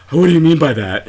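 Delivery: breathy nerdy voice. Retold or imitated. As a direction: play the creepy nerd. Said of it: "a very sort of nerdy voice".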